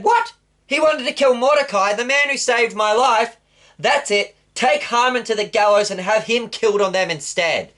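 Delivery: furious disbelief, then hand down the sentence; indignant king. Acted. King to his official, condemning Haman, high indignant order.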